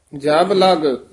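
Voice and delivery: slow ਜਬ ਲਗ, then stop; measured ਜਬ ਲਗ with a pause following; pause after phrase. Shown as a demonstration. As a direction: hold ਜਬ ਲਗ together and break after ਲਗ. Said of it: "ਇੱਥੇ ਵਿਸਰਾਮ ਹੈ".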